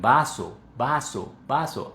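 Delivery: "vaso" with a wide open a; wide-open articulation. Shown as a demonstration. Teacher making learners aware of mouth opening, open "vaso". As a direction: open the mouth fully on each syllable of "vaso". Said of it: "muy conscientes de la apertura".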